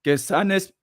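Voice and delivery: throat catching before a cough; frog in throat. Real, not acted. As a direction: voice snagged by a tickle. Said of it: "perdón, la garganta".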